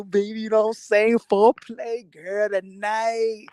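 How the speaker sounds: mock-sweet bedroom voice, slowing down at the end; seductive husband. Husband sweet-talking his wife before bed, mock seductive. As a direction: sweet-talk the wife, hammed up. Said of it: "about to go".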